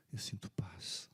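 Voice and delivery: barely voiced, peaceful whisper; faint whisper. Dying man whispers his peace to the pastor. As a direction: let it out on a breath.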